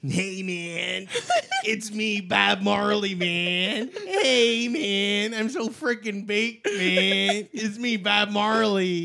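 put-on a lightly done Jamaican singer's accent with laughs; slow, baked, a hint of a Jamaican singer. Performing a requested Jamaican singer's accent, half laughing, Jamaican. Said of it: "I'd love to do my Jamaican singer accent".

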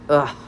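short groaned ugh; exasperated groan; disgusted groan. A narrator's reading. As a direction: groan at a friend's idea. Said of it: "Natasha groaned".

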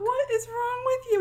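hoog, langzaam en verontwaardigd; mock outrage. Group's outraged reaction.

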